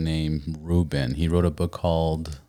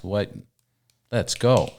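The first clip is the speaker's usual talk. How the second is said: hyped self-talk; 4 semitones higher, slower than usual. Retold or imitated. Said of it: "and I'm like".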